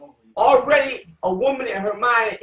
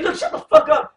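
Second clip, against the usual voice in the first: high, louder mock shout; angry shout; 6 dB louder than usual. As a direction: yell it at her. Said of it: "Tobit saying".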